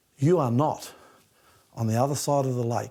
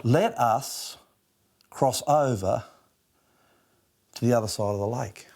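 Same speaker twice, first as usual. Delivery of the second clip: hushed reading; 3 semitones lower than usual. Shown as a demonstration. Pastor reading the verse to his listeners in a hushed voice. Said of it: "look at this very carefully".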